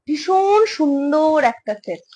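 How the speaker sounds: slow, savoured praise of the set; drawn-out admiring. Real, not acted. Showing a necklace set to online buyers, slow admiring praise. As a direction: linger over every word like it's precious. Seller admiring jewellery piece.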